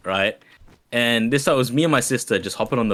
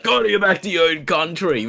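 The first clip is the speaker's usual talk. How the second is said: put-on imagined old lady; 6 semitones higher than usual. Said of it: "she probably would've been like".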